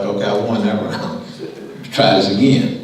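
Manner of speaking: chuckling, mock triumphant Abraham; laughing inner voice. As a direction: laugh through the thought, pleased with the win.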